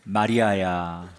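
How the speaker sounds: low, slow and gentle, the name drawn out; tender familiar call. A narrator's reading. Jesus gently calling grieving Mary by name, tender and slow. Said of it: "너무나 친숙한 목소리로".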